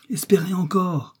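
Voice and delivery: high-pitched, heartening plea; urgent encouragement. A narrator's reading. Kennedy urging a dying man to hope, encouraging. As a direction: lift the voice to give hope.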